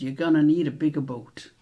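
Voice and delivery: lightly attempted American accent, punchy on "need". Quiz host quoting a film for players, amateur American accent. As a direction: have a modest go at an American accent. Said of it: "do my best American accent".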